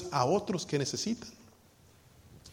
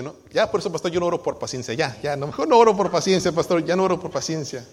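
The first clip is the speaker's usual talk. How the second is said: raised, hurried protest, peaking loud on mejor no; flustered refusal; 3 semitones higher, 6 dB louder than usual. Retold or imitated. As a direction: blurt it out like someone swearing off that prayer. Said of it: "algunos me han dicho".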